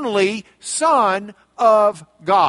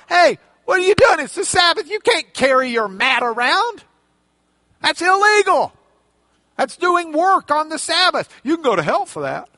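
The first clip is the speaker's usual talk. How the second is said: loud, higher accusing scold; indignant scolding; 4 semitones higher, 3 dB louder than usual. Retold or imitated. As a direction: scold him for breaking Sabbath. Jews scolding healed man.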